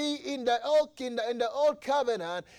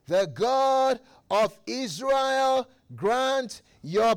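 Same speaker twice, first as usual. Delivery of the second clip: slow blessing; slower than usual. Acted. Eli blesses Hannah.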